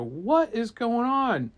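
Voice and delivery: high, slow, stretched question; baffled crowd reaction; utter bewilderment. Acted. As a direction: drag it out in mock amazement. Villagers bewildered.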